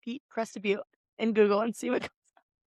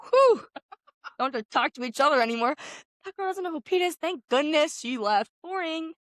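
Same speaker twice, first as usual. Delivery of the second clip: mock relief; 5 semitones higher than usual. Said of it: "both of us are like".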